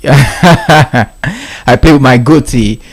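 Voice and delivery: very slow, drawn out; slow, deliberate. Shown as a demonstration. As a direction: stretch every word slowly. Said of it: "repeats it slowly".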